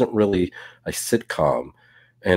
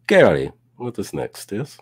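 a hint of a mock Russian accent, jumping high on What; lightly put-on Russian accent, playful; bad Russian accent teasing the co-host; 8 semitones higher than usual. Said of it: "This is my bad Russian accent".

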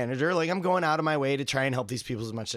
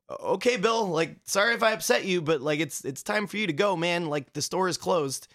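polite pleading. Retold or imitated. Politely pleading with naked customer.

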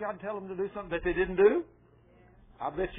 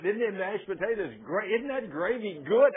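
higher-pitched mock gushing over food; enthusiastic eater; 3 semitones higher than usual. Instigator across the table raving about dinner, imitated enthusiastic gushing. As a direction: imitate an eager egger-on at the table.

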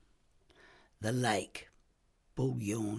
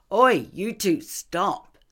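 loud, sharp call to break it up; shouting to interrupt; 10 semitones higher, 9 dB louder, slower than usual. Acted. Sergeant stops two arguing detectives with a shout. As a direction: yell at them to stop.

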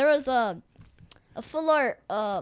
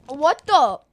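shocked disgust; 4 semitones higher, 10 dB louder than usual. Real, not acted. Smell test shock.

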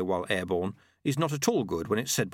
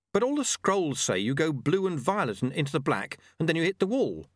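put-on higher, questioning young pupil's protest; apprentice, protesting; 5 semitones higher than usual. Apprentice objects to sweeper, citing the scrolls, protesting.

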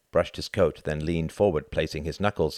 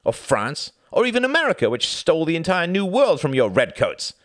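higher, clipped-free insistent diplomat pleading; German envoy voice; 11 semitones higher, 5 dB louder than usual. A narrator's reading. Envoy courting Churchill, higher and louder persuasion. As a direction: press the offer as a smooth German envoy. Ribbentrop voiced in read story.

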